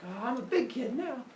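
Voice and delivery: put-on high, childlike boast; proud little kid. Epimetheus after his first big kid decision, proud.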